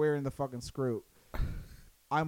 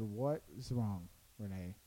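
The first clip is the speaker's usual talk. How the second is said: retold gentle concern; 5 semitones lower, 7 dB quieter than usual. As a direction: ask it quietly and patiently, as remembered. Retelling concern for upset friend.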